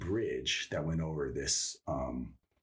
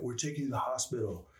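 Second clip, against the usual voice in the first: quick crewman quote; 7 semitones higher, faster than usual. Retold or imitated. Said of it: "he's like".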